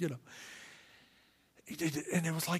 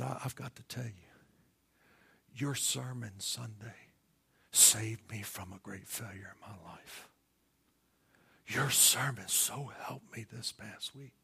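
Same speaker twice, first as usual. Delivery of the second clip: hushed, choked-up whisper, slow in places; tearful whisper; 2 semitones lower than usual. Retold or imitated. Wanda confessing to her pastor at dinner, tearful whisper. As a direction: whisper it through held-back tears. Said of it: "and she just started crying".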